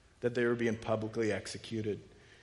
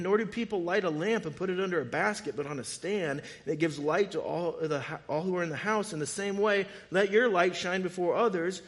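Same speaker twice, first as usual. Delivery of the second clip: fervent scripture reading; 5 semitones higher, 6 dB louder than usual. Acted. Reading scripture with rising fervor.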